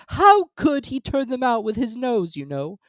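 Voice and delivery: high, slow, puzzled insistence; a high, slow turtle voice; insistent Mock Turtle. A narrator's reading. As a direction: press the question.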